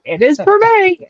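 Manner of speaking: high-pitched, comic protest; mock indignant squeal breaking into a laugh; insistent retort. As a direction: imitate a kid insisting, pitch way up. Son insists back at dad, acted.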